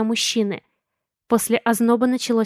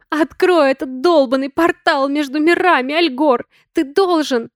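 high, loud angry order; furious demand; 4 semitones higher, 4 dB louder than usual. A narrator's reading. Sonya yells at Algor to open the portal, furious. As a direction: force him to open it.

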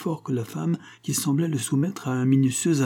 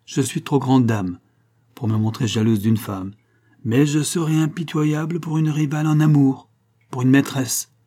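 raised, proud warning to a rival; haughty threat; 4 semitones higher, 3 dB louder than usual. Acted. A grand lady warns him she is merciless. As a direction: lay down the law like a jealous grand lady.

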